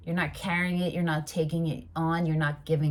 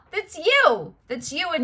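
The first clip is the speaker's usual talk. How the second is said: much higher and louder, thrilled; excited outburst; 11 semitones higher, 6 dB louder than usual. Real, not acted. Reader tells the client the card is them, excited. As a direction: burst out with delight at the card.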